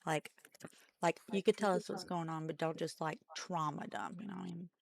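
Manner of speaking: talking while chewing; mouth full. Real, not acted. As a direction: speak through a mouthful. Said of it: "this is me trying to talk with food in my mouth".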